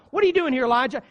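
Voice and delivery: God calling Elijah out, loud and high; forceful challenge. Acted. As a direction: demand an answer from him.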